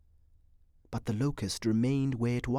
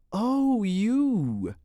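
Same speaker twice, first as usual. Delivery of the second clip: high, louder drawn-out playful reproof; mock scolding; 8 semitones higher, 5 dB louder than usual. A narrator's reading. Woman parries his teasing, mock scolding. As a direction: scold fondly, swooping up and down. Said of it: "she parried, assuming a frown".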